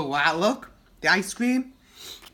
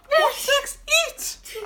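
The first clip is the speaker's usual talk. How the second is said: high, breathy whispered question; what's next whispered, no voice; 6 dB louder, slower than usual. Real, not acted. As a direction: lean in and whisper it like a secret. Whispered teasing to child.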